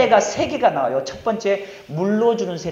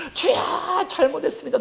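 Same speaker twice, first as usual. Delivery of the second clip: imitated tearful prayer; 10 semitones higher than usual. Students crying to God at a retreat, imitated tearful prayer. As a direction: imitate a teen wailing in repentance. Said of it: "눈물 흘리면서".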